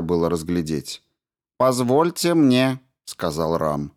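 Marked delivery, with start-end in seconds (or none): 1.6-2.8 high, measured, slow robot voice; polite robot. A narrator's reading. Robot Ram greets the injured doctor, high and slow. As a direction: greet him like a courteous machine.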